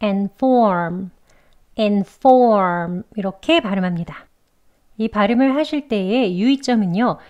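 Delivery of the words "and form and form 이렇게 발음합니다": "form" stressed and held long; clear, drawn-out stress on "form"; stressed second syllable. Shown as a demonstration. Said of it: "두 번째 음절을 강하고 높게 길게".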